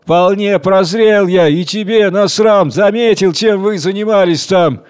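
furious accusation of the wife; outraged yell; angry shout. Acted. Husband keeps shouting.

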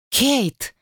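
sudden high cry of a name. A narrator's reading. Wife cries out for the maid in alarm. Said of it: "вскрикнула она".

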